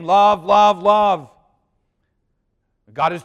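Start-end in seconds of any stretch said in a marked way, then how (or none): 0.0-1.3 loud, ringing love, love, love; mock angel proclamation. Preacher imagining angels crying out love, loud proclamation. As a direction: call it out the way the angels might have. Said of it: "The angels could have been saying".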